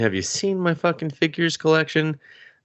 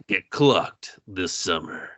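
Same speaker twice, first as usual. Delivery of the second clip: slow, lower movie trailer voice; mock deep trailer read; lower trailer tagline; 5 semitones lower, much slower than usual. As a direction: boom it like a trailer announcer. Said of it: "that's the tagline on the poster".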